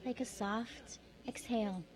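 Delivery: softly, like an exhale; soft, gentle hush. Shown as a demonstration. Speaker describing the still small voice to listeners, soft and gentle. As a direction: let the words out gently, hushed.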